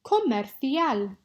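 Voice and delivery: Comercial said slowly, each syllable clear, kɔmɛrθial with a lisped c; slow model pronunciation. Shown as a demonstration. Teacher models Comercial for the class, slow and clear. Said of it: "pronunciation practice".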